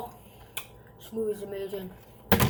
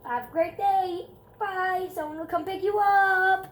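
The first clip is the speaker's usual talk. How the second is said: mimicking the nurse; 7 semitones higher, 6 dB louder, slower than usual. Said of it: "She's like".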